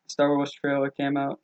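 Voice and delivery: a slight British lilt, slowly; accidental British accent. Real, not acted. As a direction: slip briefly into a faintly British accent. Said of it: "Did I just get a British accent".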